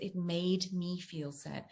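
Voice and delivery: slow, even and calm, without any edge; calm, not aggressive. Shown as a demonstration. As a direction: say "It made me feel sad" slowly and gently, with no blame. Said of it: "but I wasn't aggressive".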